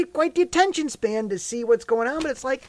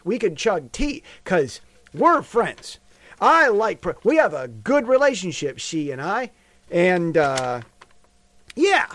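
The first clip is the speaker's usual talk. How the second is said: Trump impression. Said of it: "to hear Trump talk about their friendship".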